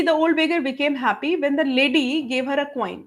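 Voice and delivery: slow, spaced-out dictation voice, each word set apart. Acted. Teacher dictating an answer to students, slow and spaced. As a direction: read it out so students can write it down.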